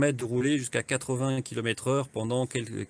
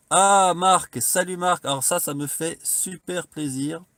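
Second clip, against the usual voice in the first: loud, high, delighted hello; excited greeting; 5 semitones higher, 6 dB louder than usual. Real, not acted. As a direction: call out a happy welcome. Greets a viewer joining live.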